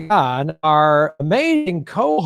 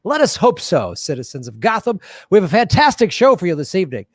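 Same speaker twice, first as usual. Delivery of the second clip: game show host voice; 3 semitones higher than usual. Pretend. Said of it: "Does it sound polished and pure and fun?".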